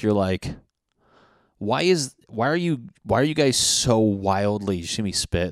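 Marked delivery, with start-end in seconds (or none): 1.6-4.8 worked-up, louder disbelief at the bugs; excited. Real, not acted. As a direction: spit it out all fired up. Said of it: "that's how excited I am".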